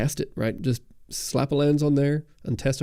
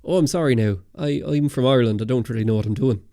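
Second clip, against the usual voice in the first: put-on Irish accent. Telling Paul how to dodge political talk, put-on Irish accent. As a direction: play up the Irish accent in mock apology. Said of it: "throw on your best Irish accent".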